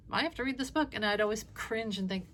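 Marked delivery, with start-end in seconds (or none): 0.1-0.9 mock kid whine. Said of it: "would come in and".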